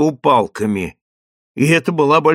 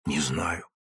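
much lower and softer, «Не знаю» almost lost; faint low murmur; 12 semitones lower, 13 dB quieter than usual. Acted. Refugee woman answers the sergeant in a faint low murmur. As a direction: let «Не знаю» sink to a faint, low breath.

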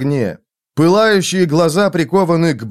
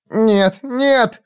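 put-on high-pitched little-child refusal; frightened child; 9 semitones higher than usual. A narrator's reading.

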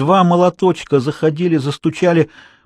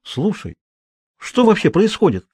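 put-on high-pitched, amazed girl; astonished exclamation; 6 semitones higher than usual. A narrator's reading. Girl recognises the drawing from his notebook, astonished. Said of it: "воскликнула она".

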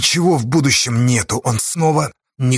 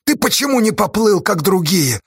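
anguished scolding; 8 semitones higher than usual. Acted. Scolding a friend on cliff.

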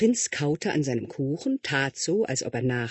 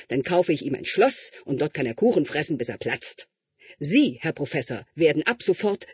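a louder, firm royal voice; commanding king; 2 semitones higher, 4 dB louder than usual. Acted. King ordering the tutor, louder and firm. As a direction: lay down the law to the tutor.

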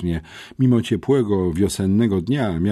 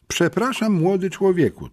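polite lady; 12 semitones higher than usual. Retold or imitated. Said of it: "tak powiedziała do mnie".

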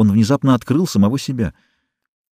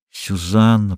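ordinary delivery

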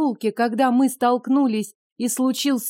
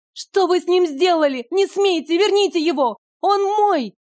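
high, loud desperate pleas; frantic, tearful outcry; desperate cry; 8 semitones higher, 3 dB louder than usual. Acted. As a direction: scream at them to stop. Desperate over her dying pet.

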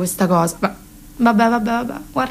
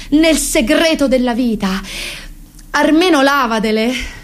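solemn speech to son. Pretend. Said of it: "Però gli direi".

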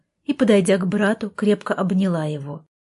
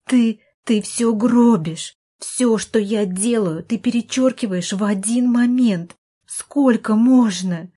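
raised, slow, emphatic scolding; exasperated reproach; 4 semitones higher, 4 dB louder than usual. Acted. Sister accuses brother of ruining her efforts, exasperated. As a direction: spell out the grievance, higher and drawn out.

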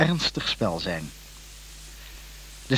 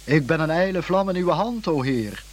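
mock pathos; 5 semitones higher than usual. Shown as a demonstration. Introduction mocking pious plays, lofty declaiming. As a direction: ham up a pious stage line. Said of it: "dan om te roepen".

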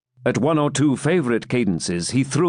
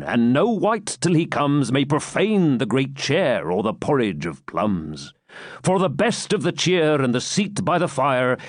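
rollicking ballad verse reading; poem recitation. Acted. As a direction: recite it like a jolly old song. Hermit's song recited as verse.

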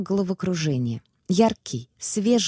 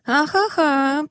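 laughing; 10 semitones higher, 4 dB louder, much slower than usual. A narrator's reading. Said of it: "причитал хозяин заведения".

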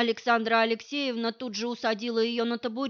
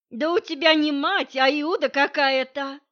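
louder, higher scornful jab; loud mocking jab; 4 semitones higher, 8 dB louder than usual. Masha scorns Nadya's mother, loud mocking jab. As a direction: call her a Judas loudly.

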